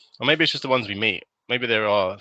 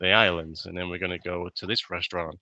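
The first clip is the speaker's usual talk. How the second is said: lightly voiced American with an even, level tune; monotone American voice. Imitating the chatty American tourist by the pool, a mild monotone American accent. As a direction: keep it level and droning, a mild American twang. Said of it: "such a monotone American voice like this".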